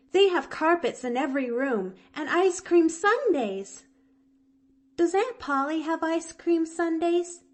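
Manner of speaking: put-on high, eager little girl voice, a catch in the breath; a small orphan girl bravely glad; young girl Pollyanna. Orphan girl to Nancy, high and earnest.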